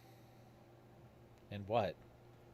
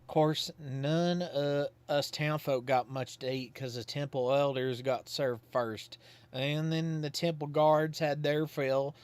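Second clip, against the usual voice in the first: higher, drawn-out country yokel voice; folksy old Godfrey; 3 semitones higher, 4 dB louder, slower than usual. Acted. Godfrey calls at Susie's house, folksy and higher. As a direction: play him as a simple, cheerful Southern townsman.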